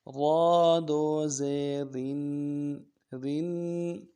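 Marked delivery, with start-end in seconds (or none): 0.1-2.8 light, thin را with a nasal tanween; slow, fine را in زیرین; باریک را. Shown as a demonstration. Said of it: "را کو باریک کرنا ہے".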